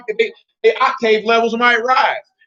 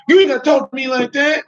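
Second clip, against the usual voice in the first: lightly imitated indignant woman, higher; mock affronted comeback, pitched up; 4 semitones higher than usual. Imitating woman who objects to raised voice, mock woman. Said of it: "And she like".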